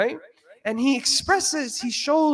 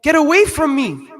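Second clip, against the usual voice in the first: angry dismissal; 3 semitones higher, 8 dB louder than usual. Retold or imitated. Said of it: "And he says".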